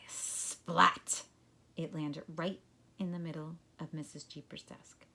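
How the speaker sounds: calm storybook reading voice; story narration. A narrator's reading. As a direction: read it like a class story. Reads story to class.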